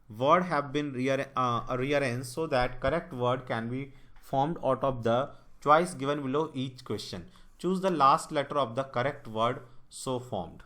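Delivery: reading the English line out word by word, slowly; slow question read. Shown as a demonstration. Teacher slowly reads the puzzle statement to students, deliberate.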